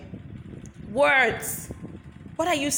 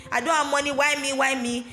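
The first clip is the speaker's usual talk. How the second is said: self-pity; 3 semitones higher than usual. Retold or imitated. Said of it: "those self-pity, lack words".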